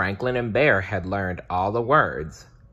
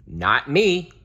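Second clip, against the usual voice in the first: little bear voice; 6 semitones higher, 4 dB louder than usual. Acted. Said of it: "said Bear".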